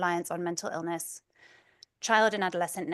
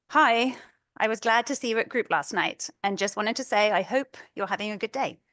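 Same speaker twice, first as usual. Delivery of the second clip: reading a supportive text aloud, a bit louder; reading a kind message; 3 semitones higher, 6 dB louder than usual. Retold or imitated. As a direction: read a friend's message with heartfelt care. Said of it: "reading a couple messages".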